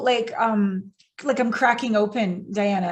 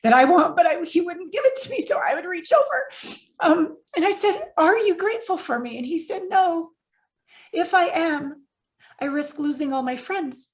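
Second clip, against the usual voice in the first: high, crying voice fighting through the story; real tearful voice; 5 semitones higher than usual. Real, not acted. Woman retelling her partner's refusal of gratitude, on the edge of crying. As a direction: push the words out through real tears. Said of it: "I'm gonna cry this whole interview".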